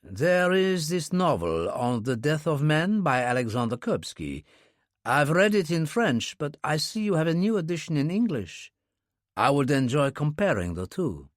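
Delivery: a lightly voiced French accent, unhurried; Kurbsky faking a French accent to the clerk. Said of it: "Kurbsky put on his French accent".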